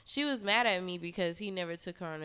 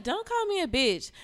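high, louder mock protest; mocking the girlfriend; 9 semitones higher, 5 dB louder than usual. The girl objecting to being called a bitch, mocked high. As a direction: throw her objection back high. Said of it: "She's like".

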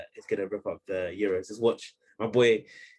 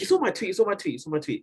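louder, higher, insisting; insistent; 8 semitones higher, 4 dB louder than usual. Real, not acted. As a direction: keep pressing the point. Insisting to friend, repeated.

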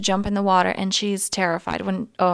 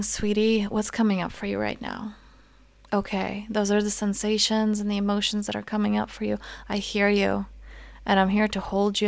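put-on softer, soothing mother to her inner child; tender reassurance; 4 dB quieter than usual. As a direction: gently comfort a scared child. Voicing tender inner parent.

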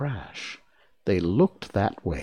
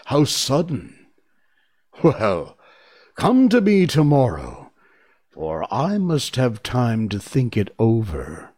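booming wizard voice; 4 dB louder than usual. Acted. Oz booms a delay.

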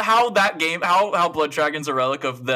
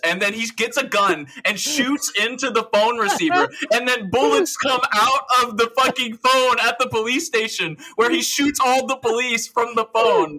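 excited; 6 semitones higher than usual. Real, not acted. Excited retelling of absurd scene.

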